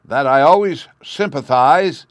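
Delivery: loud, high, slow orator's yell. A narrator's reading. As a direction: bellow it out over a crowd. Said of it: "yelled the Chancellor".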